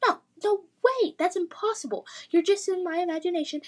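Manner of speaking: high, fast panicked denial; disbelieving. Acted. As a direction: talk yourself out of it, flustered. Lily denies the talking dragon.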